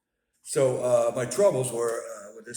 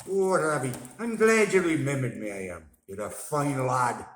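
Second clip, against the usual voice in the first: imagined granddad; 5 semitones higher, 8 dB louder than usual. Pretend. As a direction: speak as the proud late grandfather. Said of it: "Hope he would have said that".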